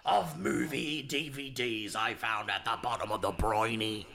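lightly voiced old sea captain; a hint of salty sailor, slowed. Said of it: "Captain Cinema's coming out".

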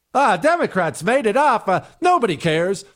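parroting a lazy excuse; mock dismissive quote. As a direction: wave it away with contempt. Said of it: "is a ridiculous answer".

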